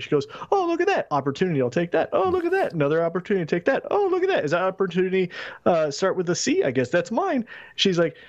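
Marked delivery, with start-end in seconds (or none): 0.5-7.4 mocking Charlotte. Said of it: "mocked Charlotte".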